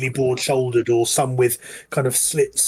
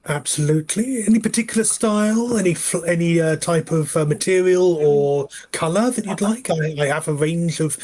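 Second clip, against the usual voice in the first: goblin tailor; 3 semitones higher than usual. Acted. Tailor talking to customer.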